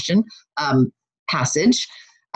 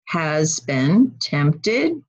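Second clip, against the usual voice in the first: slow recitation; much slower than usual. Shown as a demonstration.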